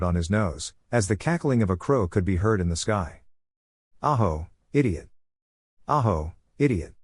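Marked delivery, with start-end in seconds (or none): 4.0-5.1 crow voice. Acted. Crow cackling in the sky. 5.9-6.9 crow voice. Acted. Crow repeats its call.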